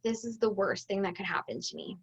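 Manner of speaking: low, soft, defeated mutter; husband's quiet defeated complaint; gloomy husband. Retold or imitated. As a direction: sigh it out like it's the end of the world. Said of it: "he was just kinda like".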